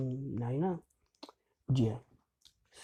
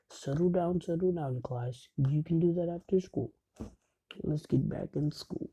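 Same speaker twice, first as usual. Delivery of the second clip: teacher calling order; 5 semitones higher than usual. Retold or imitated. Teacher calls class to order.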